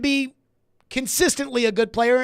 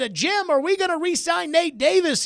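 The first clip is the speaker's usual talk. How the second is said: reader asking a question; 6 semitones higher than usual. Acted. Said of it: "somebody said".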